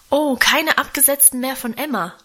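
put-on a child's glad outcry, understated; mild thrilled exclaim; delighted exclamation. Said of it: "rief Guste begeistert".

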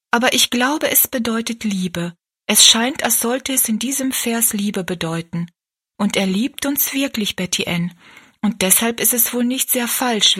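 put-on lightly lifted, earnest girl's voice; thoughtful Rosalie. Rosalie explaining grace to Betty Ann, lightly voiced, thoughtful. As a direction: puzzle it out earnestly as young Rosalie.

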